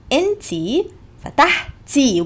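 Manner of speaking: فتحتي with a clear final i; Egyptian Arabic demo. Shown as a demonstration. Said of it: "We add a T and a Y".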